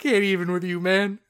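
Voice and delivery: words broken by real laughter, mock exasperated; laughing disbelief. Telling the cashier story to a co-host, laughing through the line. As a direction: laugh through it, can't keep a straight face. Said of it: "I was like".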